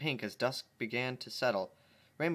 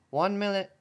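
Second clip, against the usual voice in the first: calling out; 4 semitones higher, 6 dB louder than usual. A narrator's reading. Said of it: "Twilight called from inside".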